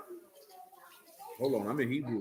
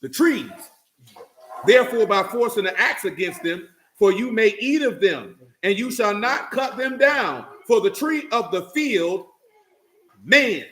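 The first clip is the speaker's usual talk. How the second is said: preacher's solemn reading; scripture reading. Acted. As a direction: lay each clause down for the congregation. Preacher reads scripture aloud.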